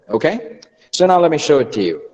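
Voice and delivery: ordinary talk, nothing marked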